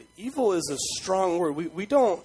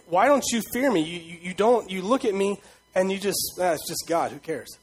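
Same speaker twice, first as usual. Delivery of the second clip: indignant God; 3 semitones higher than usual. Acted. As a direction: scold hard, then mimic their careless shrug. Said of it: "And he says".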